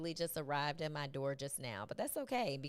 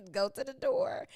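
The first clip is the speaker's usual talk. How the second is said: breathy giggling whisper to the chat; laughing whisper; 7 semitones higher, 4 dB louder than usual. Real, not acted. To viewers, stuck on the podcast: laughing whisper.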